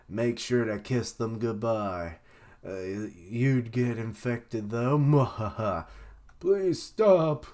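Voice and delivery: slow taunting villain with cackle; mad scientist. Retold or imitated. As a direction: taunt them, then cackle. Voicing Queen taunting.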